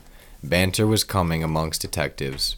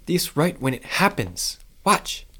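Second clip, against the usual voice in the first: put-on old woman voice; 11 semitones higher than usual. A narrator's reading.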